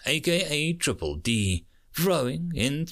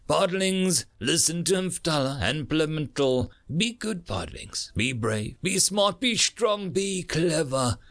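earnest higher-pitched marine, phrase by phrase; heartfelt parting advice; 5 semitones higher than usual. Acted. Marine leaves last advice for his podlings, heartfelt and earnest. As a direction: urge the little ones on lovingly.

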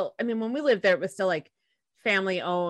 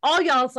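"All" of "All y'all" hit higher and louder; stress on all; 6 semitones higher, 4 dB louder than usual. Shown as a demonstration. Answering the co-host, punching "All" in "All y'all". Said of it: "Why would you say y'all versus all y'all".

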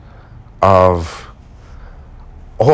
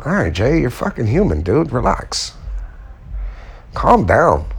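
calming himself; 5 dB quieter than usual. Retold or imitated. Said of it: "Then I was like".

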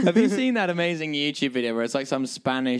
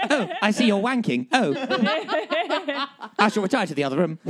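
C three P O; 5 semitones higher than usual. Pretend. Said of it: "sound like C three P O".

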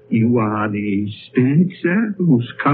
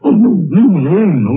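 frightened protest; 7 semitones higher, 5 dB louder than usual. Acted. Scrooge refusing to fly.

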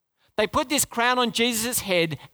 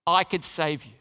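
ironic echo; 5 semitones lower than usual. Retold or imitated. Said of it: "How ironic".

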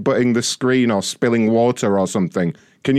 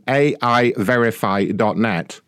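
slow deliberate spelling; 4 semitones lower, slower than usual. Real, not acted. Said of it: "for the love of God".

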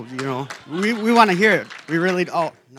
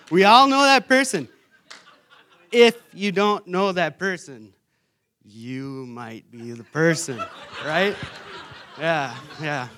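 laughing; 2 semitones higher, 6 dB louder than usual. Real, not acted. Laughing at own joke.

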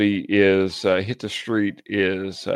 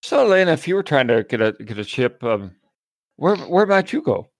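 put-on Tennessee accent; 6 semitones higher than usual. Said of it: "This is my Tennessee accent".

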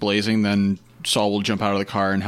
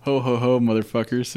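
Santa laugh; 3 semitones higher than usual. Pretend. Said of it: "I'm like Santa Claus".

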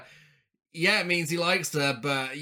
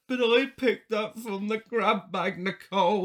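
put-on slow, higher Lancashire girl voice; Lancashire accent; 4 semitones higher than usual. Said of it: "What was with that Lancashire accent?".

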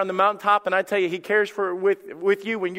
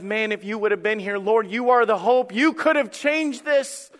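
pleading reproach; 5 semitones higher than usual. Acted. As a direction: build a grieving reproach to the Lord. Voices grieving sisters' reproach.

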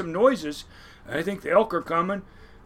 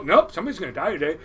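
fast, louder, stubborn warning; the voice insists, quicker; insistent inner voice; 5 dB louder, faster than usual. Retold or imitated. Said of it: "you hear it go".

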